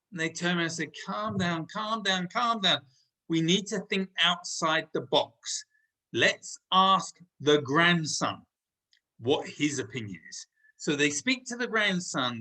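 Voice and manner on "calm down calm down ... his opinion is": calming family. Acted. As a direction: settle him down gently. Family calms the panicking grandfather.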